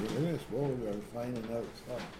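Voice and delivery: talking with a mouth full; words around a bite of food. Real, not acted. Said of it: "I can't talk with my mouth full".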